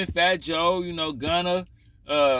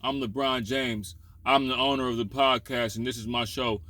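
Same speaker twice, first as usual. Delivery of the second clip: mock LeBron; 4 semitones lower than usual. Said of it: "barely talk like".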